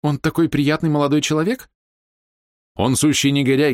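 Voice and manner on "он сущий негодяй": heated retort. A narrator's reading. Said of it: "горячо возразил Вернон".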